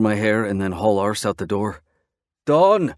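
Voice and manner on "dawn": full-throated high shout; top of lungs. A narrator's reading. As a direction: let it carry over the desert. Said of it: "I shout at the top of my lungs".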